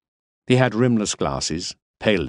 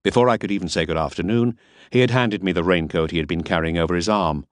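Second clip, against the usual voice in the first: plain reading voice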